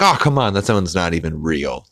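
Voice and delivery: mock exasperation. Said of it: "he's like".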